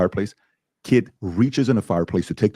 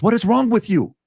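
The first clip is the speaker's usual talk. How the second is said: mom voice; 4 dB louder than usual. Retold or imitated. Mom voiced in retold story.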